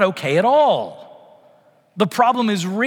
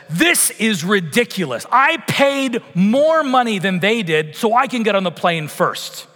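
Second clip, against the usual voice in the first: complaining man; 4 semitones higher than usual. Retold or imitated. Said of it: "out loud says".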